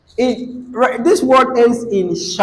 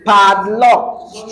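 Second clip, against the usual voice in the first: "Padlock" with the weight on PAD; teacher's demo of "Padlock", first part stressed; 2 semitones higher than usual. Shown as a demonstration. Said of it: "stress pad".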